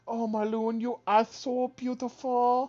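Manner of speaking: hammed-up courtier adoring the ruler; gushing flatterer. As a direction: pour on the flattery until it cracks into a cry. Character fawning over the ruler.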